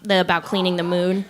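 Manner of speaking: low, confidential narrator aside. Acted. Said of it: "I thought I was doing my narrator voice".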